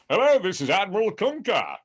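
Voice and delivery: high, projected mock British commander; Patrick Stewart. Shown as a demonstration. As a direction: declaim it as a grand English admiral. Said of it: "my stupid Patrick Stewart bad impression".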